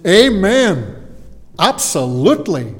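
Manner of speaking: high, loud, hammed-up Amen; mock hearty Amen, absolutely; mock eager agreement. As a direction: play the eager crowd agreeing. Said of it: "And they would have went".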